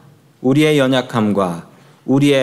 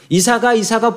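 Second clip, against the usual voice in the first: fond calling; 8 semitones higher than usual. Retold or imitated. Parent calling son.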